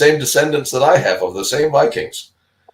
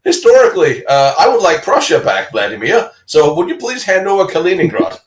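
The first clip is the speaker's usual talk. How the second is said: louder, higher cheeky demand; mock challenge; 4 semitones higher, 3 dB louder than usual. Mock-retorting to Putin over Prussia, cheeky and louder. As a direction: sarcastically stake a claim. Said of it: "I'm like".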